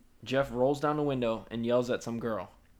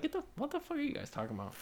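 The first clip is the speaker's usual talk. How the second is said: mock incredulous yell; 8 dB quieter than usual. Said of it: "I was like".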